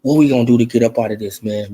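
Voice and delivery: hushed mock panic from the PBC bosses; mock panicked PBC. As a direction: mutter it like a scared executive scrambling. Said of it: "I bet they at the P B C scrambling".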